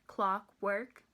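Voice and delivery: "Clockwork" in two separate even beats; sounded out by syllable. Shown as a demonstration. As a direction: split "Clockwork" into clock, then work. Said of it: "So let's try that".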